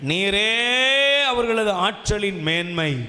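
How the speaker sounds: very slow psalm reading, first word drawn long; intoned, reverent verse recital; solemn scripture reading. Real, not acted.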